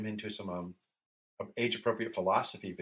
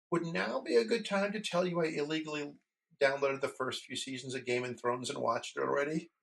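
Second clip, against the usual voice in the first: higher, imitating a kid owning up; mock-innocent kid's voice, pitched up; tentative confession; 6 semitones higher than usual. Retelling son's cautious confession.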